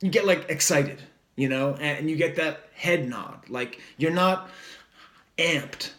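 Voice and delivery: laid-back surfer dude talk; like an eighties surfer. Real, not acted. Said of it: "I sound like an eighties surfer".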